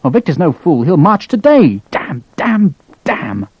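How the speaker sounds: high, heated fury with bitter mockery; seething rant. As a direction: rant and mock their laziness. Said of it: "seething fury".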